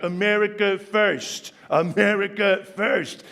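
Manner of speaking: Trump line in a New York accent. Shown as a demonstration. Demonstrating Trump with a typical New York accent. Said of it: "with the typical New Yorker accent".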